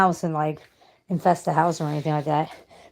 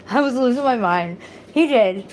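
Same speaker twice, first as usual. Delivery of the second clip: laughing through tears; 3 semitones higher, 6 dB louder than usual. Real, not acted. Laughing-crying after the retelling.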